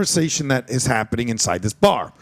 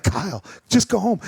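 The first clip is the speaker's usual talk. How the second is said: stern father; 5 semitones higher than usual. Retold or imitated. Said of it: "Kyle, I was like".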